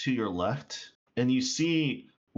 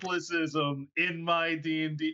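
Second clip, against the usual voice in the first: loud protest; 7 semitones higher, 8 dB louder than usual. Real, not acted. GM protests loudly.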